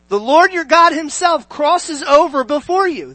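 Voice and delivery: high, projected Bible reading; declamatory preacher reading aloud; scripture reading. Acted. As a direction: proclaim the verse to a congregation.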